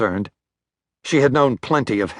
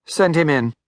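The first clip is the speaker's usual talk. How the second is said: curt boss; 5 semitones higher than usual. A narrator's reading. Heffler answering on the phone.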